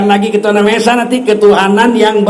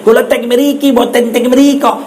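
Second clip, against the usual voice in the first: Batak accent; slower than usual. Shown as a demonstration. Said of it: "logat Batak".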